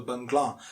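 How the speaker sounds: Bangla as bung-GLAA; stretched second syllable. Shown as a demonstration. Teacher isolating the mistake, stretched Bangla. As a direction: hold the AA in "Bangla". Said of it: "a stretch in the second".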